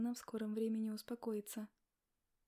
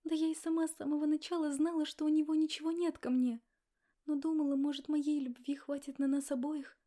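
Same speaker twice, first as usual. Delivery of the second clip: tearful confession; 5 semitones higher, 7 dB louder than usual. Acted. Sobbing pregnant girl confessing.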